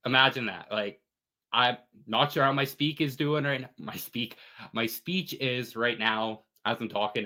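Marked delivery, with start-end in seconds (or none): 1.5-7.2 sore mouth after wisdom teeth; talking carefully with a sore mouth; after wisdom teeth removal. Real, not acted. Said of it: "I hope I sound good, 'cause I got my wisdom teeth out".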